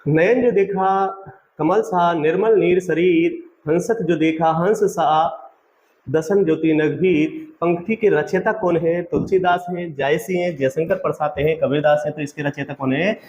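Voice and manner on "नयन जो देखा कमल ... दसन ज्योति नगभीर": poem recitation. Acted. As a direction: recite each line slowly, as verse. Recites couplet lines in class.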